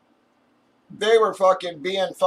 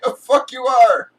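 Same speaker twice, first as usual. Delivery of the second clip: louder and higher, full shout; retold shout; 5 semitones higher, 6 dB louder than usual. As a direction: yell it right back at them. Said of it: "I'm like".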